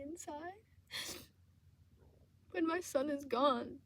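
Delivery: high, teary voice rising to anger, then fading; grieving owner lashing out through tears; tearful outburst. Real, not acted. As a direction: sob it out, angry and hurt. Grieving outburst over dead cat.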